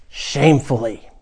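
slow, deliberate words with pauses between; grave guard. Acted. Guard reveals how the rescuer died, slow and grave. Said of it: "The guard looks you right in the eye".

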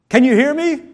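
first try at being heard. Shown as a demonstration. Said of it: "Say it louder".

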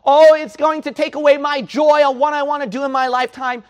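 high, loud whining mock of a reluctant believer; mock whiny voice of a halfhearted Christian; mocking whiny complainer. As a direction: sneer out the lazy excuse. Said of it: "So what?".

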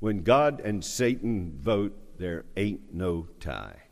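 a light North Charleston twang, ain't drawn out; relaxed North Charleston drawl on there ain't no tie; North Charleston accent. Real, not acted. Preacher to congregation, slipping into his North Charleston accent. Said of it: "pardon my North Charleston accent".

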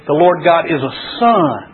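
SUN held long at the end; stress on SUN. Shown as a demonstration. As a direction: land firmly on the word "sun". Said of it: "go through and emphasize each word".

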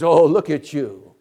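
mocking, rising to a high loud jeer; Satan taunting. Satan taunting the fallen sinner, high mocking jeer. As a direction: sneer at the sinner like the devil. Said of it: "Satan says".

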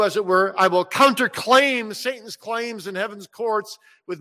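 earnest preached promise as Jesus; a lightly voiced Jesus, fervent; voicing Jesus. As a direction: speak as Jesus, steady and sure.

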